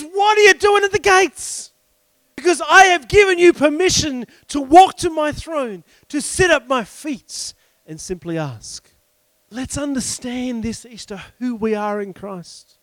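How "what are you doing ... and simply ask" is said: God answering emphatically. Retold or imitated. God answering the man at the gates, emphatic retold reply. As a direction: imitate God correcting, then softening at the end. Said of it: "And he says".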